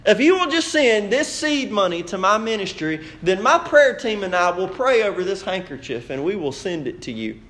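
lightly imitated televangelist appeal; mock prosperity preacher. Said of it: "I've seen prosperity preachers that do this".

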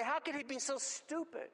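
exasperated rhetorical cry; incredulous. Acted. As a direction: scoff at his foolishness in mock disbelief. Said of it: "I look at this and I say".

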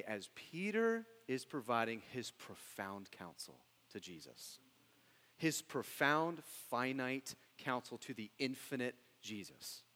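mock reverence for foolish advice; dry sarcasm, leaning on the big words; sarcastic. Real, not acted. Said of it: "That's sarcasm".

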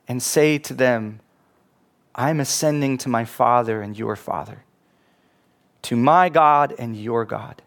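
measured, solemn Bible reading; scripture reading. Acted. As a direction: read the Gospel aloud with reverence. Preacher reads the Gospel passage.

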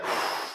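demonstrated relieved exhale; sigh of relief. Shown as a demonstration. Preacher imitates player watching the ball drop, relieved sigh. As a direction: act a player letting the breath go after the shot. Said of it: "was a sigh of relief, like when the player".

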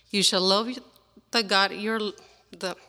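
nervous reader stumbling; shaky, nervous scripture reading; stage fright. Real, not acted. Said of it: "I'm sorry, I'm nervous".

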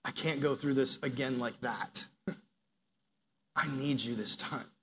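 soft, low pleading prayer; a hushed, sincere plea to Jesus; quiet prayer. Retold or imitated. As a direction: murmur it like a private plea. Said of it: "I've said".

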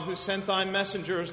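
ordinary talk, nothing marked

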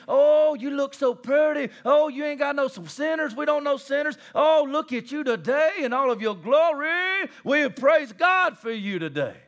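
high, hammed-up fawning; gushing mock flattery. Preacher mimics false teachers flattering their flock, gushing. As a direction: gush in exaggerated praise.

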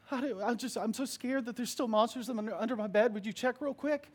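a hint of a frightened toddler; little girl. Daughter asking father to check under the bed, lightly childlike.

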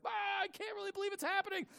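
high, startled disbelief; lightly voiced astonished cry; amazed gasp. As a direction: gasp as the water holds you. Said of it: "he, like".

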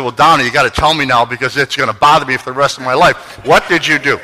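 loud, emphatic pleading to know; mock-exasperated demand. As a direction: press for the answer, playfully exasperated. Acts out own impatient demand.

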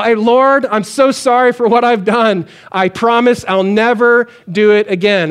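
a mock, earnest vow prayed out loud; mock fervent prayer. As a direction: play the over-eager sinner promising never again. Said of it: "anybody else ever pray that kind of prayer".

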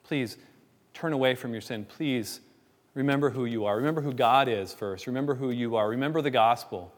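understated plea, pausing after each "please"; gentle pleading. Acted. Church member urging someone to turn from sin, pleading. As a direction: plead earnestly without raising the voice. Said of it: "And it's a pleading".

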